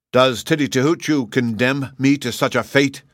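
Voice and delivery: hoarse, strained plea; rough hoarse voice, stunned. Acted. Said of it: "he asked in a hoarse voice".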